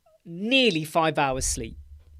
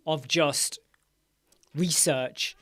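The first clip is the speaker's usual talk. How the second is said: whispered aside; much slower than usual. Real, not acted. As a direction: drop to a whisper. Trailing into a whisper.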